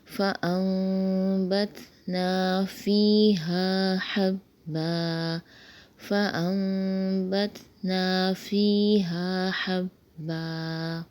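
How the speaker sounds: slow, drawn-out tajweed recitation; slow Quran recitation. Shown as a demonstration. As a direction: recite the ayah slowly with stretched vowels. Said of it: "پوری آیت کو اس طرح پڑھا جائے گا".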